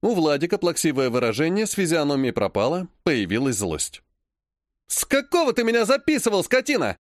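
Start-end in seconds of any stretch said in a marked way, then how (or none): 4.9-7.0 high, angry shout; furious yell. Acted. Vlad yells at Ilya for recording him, furious. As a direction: yell across the restaurant. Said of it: "Заорал он так".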